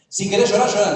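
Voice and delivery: hammed-up talk-show host coaxing tears; preacher mimics the Argentine host egging guests on; mock TV host. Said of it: "le decía a la gente".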